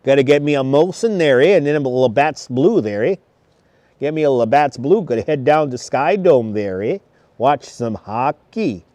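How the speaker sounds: light mock Canadian accent with tag "eh". Livestreamer ordering Canadian beer, in a mock Canadian accent. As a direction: play a Canadian hockey fan, accent lightly laid on. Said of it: "It's a great Canadian accent".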